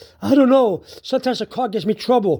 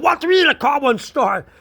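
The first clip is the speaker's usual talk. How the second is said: higher-pitched incredulous retort; exasperated; 5 semitones higher than usual. Retold or imitated. Retelling his reply to his sister's news, exasperated. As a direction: throw it back in mild mock outrage. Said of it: "I was very emotional".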